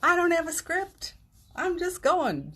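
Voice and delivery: high, loud breezy mock of a confident speaker; imitating eloquent speakers. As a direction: toss it off like an effortless orator. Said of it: "and they're just like".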